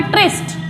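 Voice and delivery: "ट्रिस्ट" with short i and clear st; syllable drill. Shown as a demonstration. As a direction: isolate "ट्रिस्ट" as the last piece. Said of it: "सबसे पहले क्या बोलेंगे यहाँ पे?".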